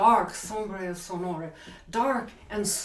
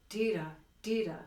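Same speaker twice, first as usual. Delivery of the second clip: "dita" with a little push on the first syllable; accented syllables; 6 dB quieter, faster than usual. Shown as a demonstration. Teacher showing a little accent, "dita" stressed up front. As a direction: lean on DI in each "dita". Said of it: "this little accent".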